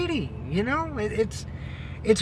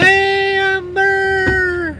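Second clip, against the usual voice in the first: loud, higher greeting shouted across; calling out; 9 semitones higher, 11 dB louder, much slower than usual. Real, not acted. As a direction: hail a friend from a distance. Calling out to a friend.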